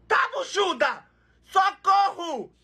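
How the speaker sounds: high, hammed-up cry for help; mock panicked scream. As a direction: shriek it in comic alarm. Mock panic at pregnant sausage.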